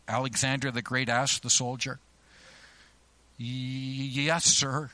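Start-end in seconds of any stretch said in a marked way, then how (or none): 3.4-4.9 frightened, faltering reply; quivering voice. A narrator's reading. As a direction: stammer it out in fear. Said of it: "in a quivering voice".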